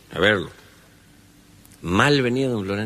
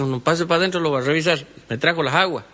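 put-on old healer greeting; 6 semitones higher, faster than usual. Samaniego greets sick Florentín at the gate, high rustic voice. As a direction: hail the visitor from the doorway. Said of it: "A la flauta dice".

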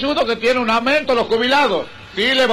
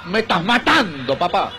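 wife's fading sigh; 5 semitones lower than usual. Retold or imitated. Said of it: "La bruja mía me dice".

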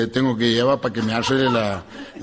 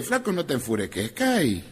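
soft calming aside; 6 dB quieter than usual. Retold or imitated. Calma al paciente.

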